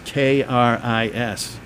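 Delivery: slow, separate letters; spelling it out. Shown as a demonstration. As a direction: spell K R I S one letter at a time. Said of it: "how I spell Chris".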